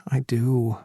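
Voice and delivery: whispered I do after a sigh; whispered admission. A narrator's reading. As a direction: barely voice it, a sigh of a yes. Sighed confession after a sigh.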